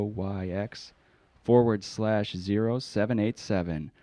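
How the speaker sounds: put-on a lightly accented scam pitchman; spam caller. Prank caller pitches a dating service to the host, lightly accented.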